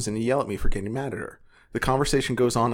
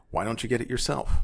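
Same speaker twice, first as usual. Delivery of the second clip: mildly annoyed, understated retort; 3 dB quieter than usual. Retold or imitated. Son tells his mom he's tired, mildly annoyed. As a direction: read it with a touch of irritation. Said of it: "in an annoyed tone".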